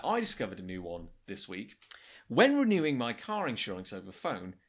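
lightly voiced narrator reading the letter; put-on narrator voice. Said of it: "he doesn't talk like this. I'm just kind of putting on a narrator".

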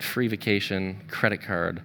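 the penny drops; husband realizes the free cruise is a scam; dawning realization. Retold or imitated.

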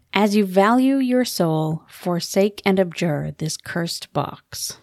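slow, solemn reading of a curse; ominous inscription. Retold or imitated. Reading the cursed box inscription to her podcast partner, slow and solemn. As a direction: intone it like an ancient warning.

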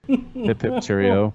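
an American playing at being British; mock British accent. American host hamming up British slang, in a mock British accent. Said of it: "an American trying to be British".

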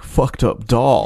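slow, lazy hipster voice; hipster guy. Retold or imitated. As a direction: stretch it out like a stoned hipster. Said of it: "he goes".

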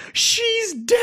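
high, loud wail of grief; wailing shout. Retold or imitated. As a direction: cry out in shocked grief. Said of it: "someone sitting there and goes".

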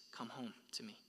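hushed, breathless whisper; whispered call. Acted. Preacher voicing God's call home, whispered. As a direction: breathe it like a gentle invitation.

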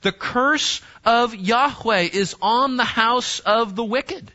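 "curse" stressed up front in a slow, deliberate reading; emphatic scripture reading. Acted. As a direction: lean on "curse", then spell out the rest slowly. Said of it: "in order to emphasize it".

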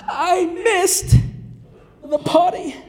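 put-on high, small kid voice; little boy voice. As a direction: sound like a sheepish toddler. Son's reply voiced.

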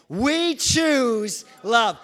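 mean each word, lean on choose; said like you mean it. Shown as a demonstration. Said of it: "Let's say it again".

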